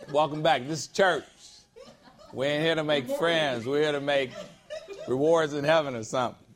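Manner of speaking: joking through a chuckle; laughing. Real, not acted. Pastor teasing the congregation, laughing. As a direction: tease the room while laughing.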